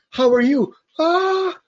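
high, bright mock greeting; mock small talk. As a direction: play the eager chatter. Teacher acts learner small talk.

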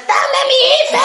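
a very high, yanking yell of "¡Dame mi ife!"; mock demand. Pulling her ID back from the witches: high mock yell. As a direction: grab it back from the witch with a squealed shout.

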